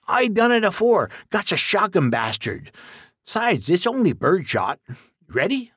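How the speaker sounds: put-on folksy old man warning his helper; rustic old exterminator. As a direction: play a blunt country codger giving orders. Duke reassures, then asks.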